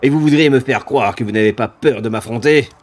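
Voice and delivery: scornful monster voice; contemptuous demon. Acted. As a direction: belittle the fools.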